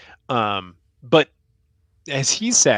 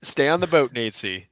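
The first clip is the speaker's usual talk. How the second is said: gentler plea. Pretend. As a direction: talk him down gently. Pleading with despairing listener Nate C.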